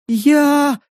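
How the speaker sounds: высокий возмущённый выкрик «Я?»; выкрикнуть в шоке; потрясённый выкрик. Acted. (громкое потрясённое «Я?»)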